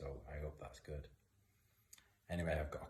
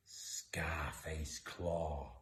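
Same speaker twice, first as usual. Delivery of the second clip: slow breathy hint of a tomcat; a mild creeping tomcat voice; cat impression; much slower than usual. Doing the tough tomcat for listening kids, lightly voiced and slow. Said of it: "That's my cat impression".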